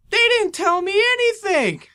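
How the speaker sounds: high, loud betrayed outcry; retelling how friends left without telling him; hurt outburst. Retold or imitated. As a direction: yell it out stung and betrayed. Upset friends left without goodbye.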